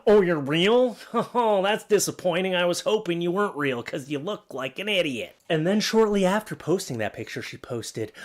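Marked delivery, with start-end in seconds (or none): 0.1-5.4 mocking taunt. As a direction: taunt her with snide glee. Mocking a girl's Reddit post.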